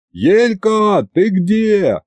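high-pitched searching call. A narrator's reading. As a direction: call for someone across a crowd. Зовёт девушку, озираясь в толпе. (оклик в толпе)

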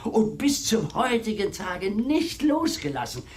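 breathless, hushed sigh of longing; romantic whisper. Acted. Servant whispers of his master's longing to the spinster. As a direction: whisper it as if revealing a secret love.

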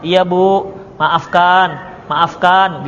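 put-on a child apologising gently to an angry mother; meek apology to mother. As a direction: beg mother's pardon meekly.

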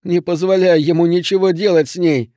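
high, urgent begging, lightly acted; pleading. A narrator's reading. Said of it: "взмолился Билл". (с мольбой в голосе)

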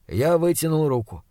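usual speaking voice

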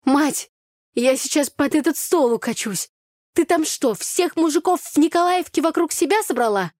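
loud, high-pitched outburst of disbelief; high, animated, overly loud teasing; too loud. A narrator's reading. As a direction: exclaim it too loudly for a café. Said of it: "она сказала это чересчур громко".

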